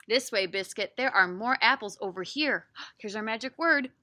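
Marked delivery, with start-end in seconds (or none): 0.1-2.7 put-on reading to children. Reads picture book aloud.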